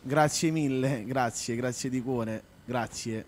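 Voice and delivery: heartfelt thanks. Real, not acted. Thanking a fan for praise.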